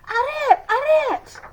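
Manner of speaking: high, loud yell after a carriage; yelling stop. A narrator's reading. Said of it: "yelled at the carriage".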